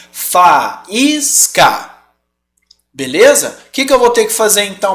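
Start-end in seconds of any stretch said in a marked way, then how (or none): 0.1-2.0 Faísca with a strong stressed í, fa-ÍS-ca. Shown as a demonstration. Teacher demonstrating the hiatus, punching the í. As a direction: give the í of Faísca extra force. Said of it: "Eu quero dar uma força pra esse I".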